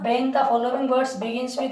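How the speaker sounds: slow, stretched dictation; drawn-out teacher dictation. Shown as a demonstration. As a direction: dictate the rule for the notebook. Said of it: "लिख देंगे हम".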